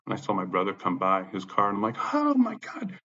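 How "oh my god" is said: very high, strained imitation of yelling; mock yelling. Calling out to his brother's car, mock screaming. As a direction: re-enact a keyed-up holler, pitched way up. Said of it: "I was yelling, screaming, cussing".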